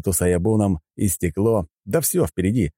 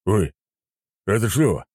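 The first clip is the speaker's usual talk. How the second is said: mildly startled, raised-pitch question; surprised; 3 semitones higher than usual. A narrator's reading. Admiral hearing an unexpected countdown, mildly surprised. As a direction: ask it with a touch of surprise. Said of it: "удивился адмирал".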